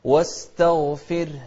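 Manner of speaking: واستغفره with a thin ر; light ra. Shown as a demonstration. Teacher showing the light ra in واستغفره. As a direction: keep the ر of واستغفره thin after the kasra. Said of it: "شوف الراء ... نرققها".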